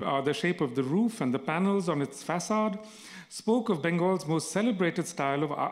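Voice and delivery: measured literary reading voice; steady, deliberate storytelling read; story narration. A narrator's reading. Reading a novel aloud.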